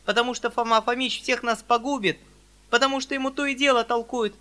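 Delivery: put-on high, loud defiant girl's rant; heated girl scolding; angry tirade. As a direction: pour out the anger without pause. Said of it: "закричала Саша".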